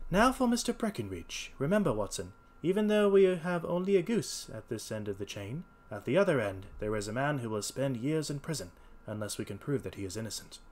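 lightly acted detective briefing his companion; earnest detective. Holmes addresses Watson.

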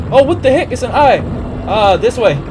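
being chased. Real, not acted.

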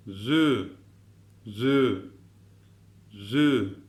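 "Zü" voiced with tongue on upper teeth, th-like; lisped zü. Shown as a demonstration. Teacher demonstrating lisped "Zü" for class. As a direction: model the lisped "Zü". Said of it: "bu da peltek".

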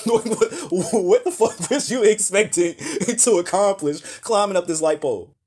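high-pitched, stammering through laughter; laughing disbelief. Real, not acted. Reacting to a failed pole climber, laughing disbelief. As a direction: crack up while demanding an explanation.

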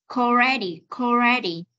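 "already" begun with a k, "kalready"; linked k. Shown as a demonstration. Teacher drills student on linking, joined k. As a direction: attach the k of o'clock to the front of "already". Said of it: "nối chữ K với chữ already đi".

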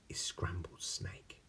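whispered. Acted. Mouse spooks snake.

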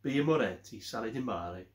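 Birra Moretti Sale di Mare in a light Italian accent, rolled r in Mare; best Italian accent. Shown as a demonstration. Beer vlogger showing viewers the name, mild Italian accent. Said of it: "My best Italian accent".

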